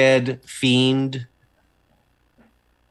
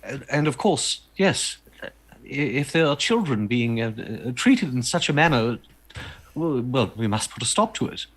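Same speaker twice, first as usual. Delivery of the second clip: lightly played proper, halting speaker; stammering formal gentleman. Character thanks Will and vows to stop it, lightly stammering formal voice. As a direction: hesitate politely, then a mild note of resolve.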